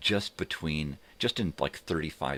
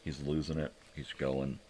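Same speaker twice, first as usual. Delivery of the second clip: imitating daughter; 6 dB quieter than usual. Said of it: "my daughter's just like".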